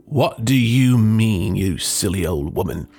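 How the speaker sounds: angry shout. Acted. Husband scolding his wife over the sausage, angry. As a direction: tell her off, cross. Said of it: "shouted the husband".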